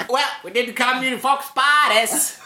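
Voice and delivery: high, hammed-up action-star outburst; bad Australian sliding into a movie-star rant; Samuel L. Jackson. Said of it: "to Samuel L. Jackson".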